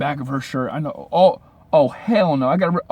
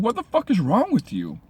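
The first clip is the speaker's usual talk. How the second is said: higher, incredulous demand; stunned disbelief; 6 semitones higher than usual. Retold or imitated. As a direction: ask her in sheer disbelief. Disbelief at her laughing.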